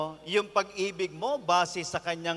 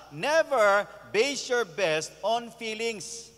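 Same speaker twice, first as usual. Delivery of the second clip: slow, weighty; much slower than usual. Shown as a demonstration. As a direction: drive the key point home slowly. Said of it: "sermon key point". (dahan-dahan at may diin)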